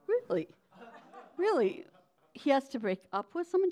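high, sharp really, really; stunned disbelief. Retold or imitated. Hearing her ex is leaving someone, shocked.

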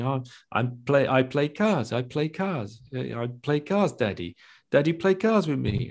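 lightly voiced little boy asking to play; mild little-kid voice begging Daddy; child voice. Voicing his young son asking.

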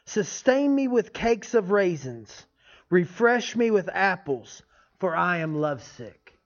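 scripture reading. Acted. Reads scripture aloud.

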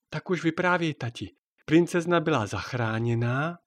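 a daughter coaxing her dad; child's voice. Acted.

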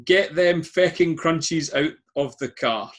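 put-on a shy stab at an Irish accent; attempted Irish accent. Quizmaster half-tries an Irish accent on the quote. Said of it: "I can't do an Irish accent".

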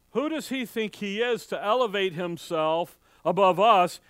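building to a loud "us?"; rising offense that bursts on the last word; indignant outrage. Retold or imitated. Preacher voicing offended neighbors, climbing to loud.

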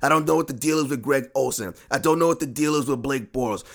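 normal talking voice

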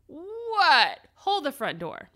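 high breathless whispered what; stunned disbelief. Retold or imitated. Hearing she gets to keep free glitter, a breathless whispered gasp.

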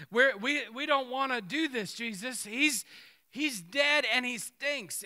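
comic exasperated sister; exasperated protest. Retold or imitated. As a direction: plead with Jesus in mock alarm. Voicing sisters' protest, higher pitched.

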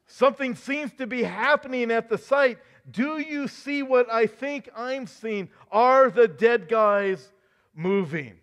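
high, loud, slowing disbelief; astonished news anchor. Pretend. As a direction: anchor who can't believe his eyes. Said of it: "The anchor".

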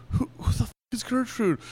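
high-pitched indignant demand; mock indignation. Imitating Lori hearing about the ghost Gertrude, indignant.

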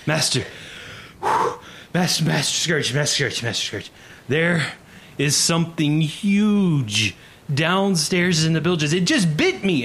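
high, breathless panic, pleading; panicked. Acted. Bitten sailor crying out to Master Scourge in panic. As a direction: gasp out the alarm in terror. Wounded sailor bursts onto deck.

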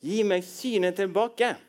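lightly acted blind man's request; blind man pleading. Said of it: "da sier den blinde mannen".

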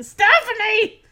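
loud, drawn-out call for help. Retold or imitated. Jesse stuck on the phone calls Stephanie back, loud. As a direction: yell her name across the house.

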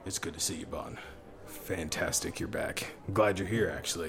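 lightly voiced Damascus, soft and measured; the bar boss greets Bond in a low, quiet voice. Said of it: "talk like him".

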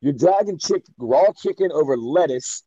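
mock telling-off, firing off pointed questions; stern. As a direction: act out a stern chef correcting a cook. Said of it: "be very stern with my talking".

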